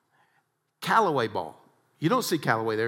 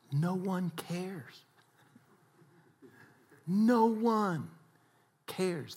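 mock the golfer's hopeless self-talk; despairing; 6 semitones higher, 3 dB quieter, much slower than usual. Preacher voicing despairing golfer.

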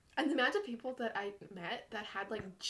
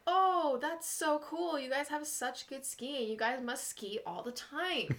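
gushing stranger; 3 semitones higher, slower than usual. Retold or imitated. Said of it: "he was like".

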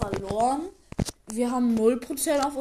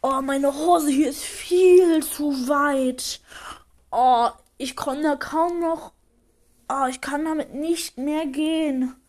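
whiny complainer; 3 semitones higher than usual. Acted. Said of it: "Der, der findet, seine Hose wäre zu weit".

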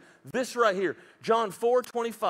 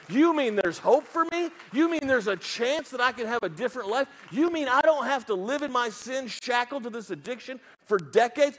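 acted hopeful disbelief, pitched higher; amazed realization; 4 semitones higher than usual. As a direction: ask it as if hope has just dawned. Acts out sudden realization of hope.

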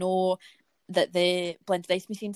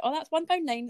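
bright service voice; 8 semitones higher than usual. Retold or imitated. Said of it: "I was like".

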